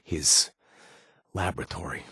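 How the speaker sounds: ordinary talk, nothing marked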